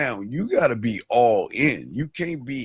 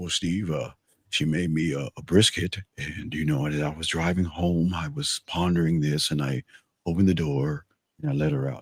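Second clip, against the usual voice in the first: put-on defeated voice, pitched lower; 7 semitones lower than usual. Imitating how Bud would sound after dropping a woman off: imitating Bud sounding defeated. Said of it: "did Bud sound like".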